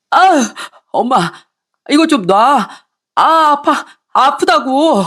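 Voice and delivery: hair being yanked; protesting son in pain. Acted. Son's hair pulled.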